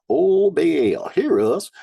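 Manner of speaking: loud pleading call. Acted. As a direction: cry out to Baal. Baal worshippers calling out.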